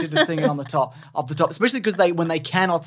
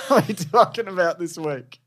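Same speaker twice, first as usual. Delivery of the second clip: trying not to laugh. Real, not acted. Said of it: "when you try not to laugh".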